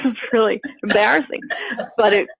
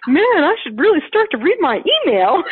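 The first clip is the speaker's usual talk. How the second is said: higher, giggling regret; laughing self-scold; 8 semitones higher than usual. Retold or imitated. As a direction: laugh it off at yourself. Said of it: "And I'm like".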